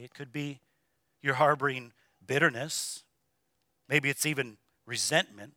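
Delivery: soft, low, gentle pleading with the hurting; quiet compassionate sermon voice; tender pastoral appeal. Real, not acted. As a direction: speak softly to the broken-hearted. Tender pastoral appeal, softer, lower.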